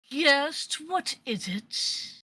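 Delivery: haughty, slow, drawn-out reply; pretentious voice. Acted. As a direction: sound put out at being disturbed. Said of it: "A very pretentious sounding person".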